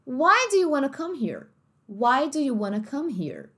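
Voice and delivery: American wanna, here with a sounded R; American accent. Shown as a demonstration. Family asking the au pair, American accent. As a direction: ask it American, curling the R in here. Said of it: "Agora, num outro sotaque".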